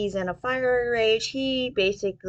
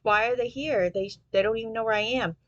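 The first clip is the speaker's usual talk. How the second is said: put-on panicked girl; 3 semitones higher than usual. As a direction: play her alarmed and rushed, half-hammed. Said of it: "Isolotl is like".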